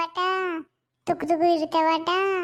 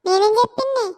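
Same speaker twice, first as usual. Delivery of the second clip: indignant shout; 3 semitones higher, 6 dB louder than usual. Acted. Quarrel, denying accusation.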